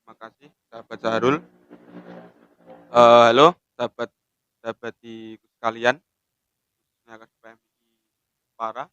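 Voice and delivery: talking while smoking; cigarette in mouth. Real, not acted. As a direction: speak round a cigarette. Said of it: "Sambil merokok, ya".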